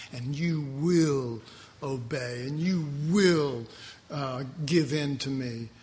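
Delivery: slow, drawn-out lightly voiced king demanding obedience; a hint of a menacing king laying down the law; mock tyrant king. King of Babylon orders the three men to obey, lightly menacing.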